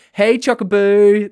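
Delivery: high, loud, slow sing-song hey chuckaboo; sweet high slow call to a pal; cutesy greeting. Acted. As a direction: coo it like greeting a best friend.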